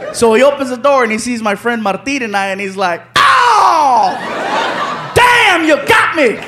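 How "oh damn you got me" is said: caught-out surprise. Retold or imitated. Guest realising the prank, surprised. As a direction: cry out at being fooled.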